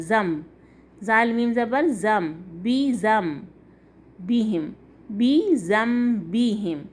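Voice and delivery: slow spelled-out زم with a humming m; deliberate recitation, no n in زم; n merged into meem. Shown as a demonstration. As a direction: join زال straight to the m, drawing out بی زم بیہم. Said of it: "یہ زال میم سے مل جائے گا".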